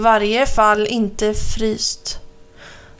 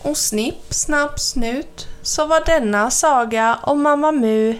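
sagoslut; 2 semitones higher than usual. A narrator's reading.

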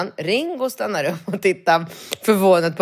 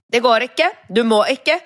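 fussy clerk; 4 semitones higher than usual. Retold or imitated. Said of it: "ett småhysteriskt".

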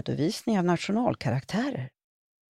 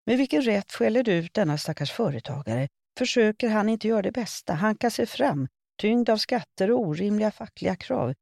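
indignant scolding; 6 semitones higher than usual. A narrator's reading. Old man scolds young woman.

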